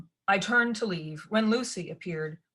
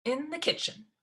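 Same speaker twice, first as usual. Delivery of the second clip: curt; 9 semitones higher than usual. A narrator's reading. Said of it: "she said shortly".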